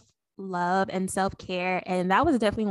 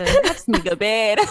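put-on tired old person; 7 dB louder, faster than usual. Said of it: "that's how you know you're growing old".

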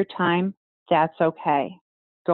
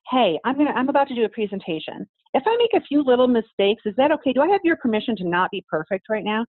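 lightly acted, higher-pitched request; asking permission; 6 semitones higher than usual. Presenter asks the crowd for leeway, lightly acted request. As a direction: put a tentative question to the crowd. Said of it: "and ask them".

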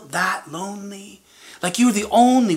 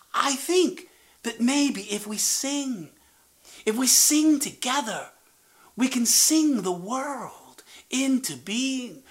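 soft whispered idea; 3 semitones higher, 5 dB quieter than usual. Acted. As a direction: whisper it like a secret plan. Fox shares a secret idea.

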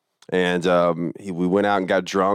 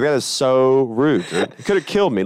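laughing indignation; 5 semitones higher than usual. Retold or imitated. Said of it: "And I was like".

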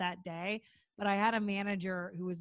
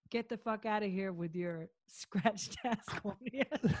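retold comeback. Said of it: "and I said".

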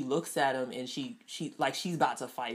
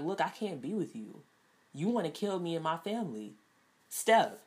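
cold and mad; 3 semitones higher than usual. Retold or imitated. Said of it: "cold to the point and mad".

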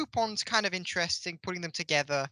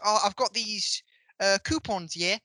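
lightly imitated actor's accent; casual put-on accent of a TV actor; Bradley Walsh accent. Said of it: "I don't know why I'm doing this accent".

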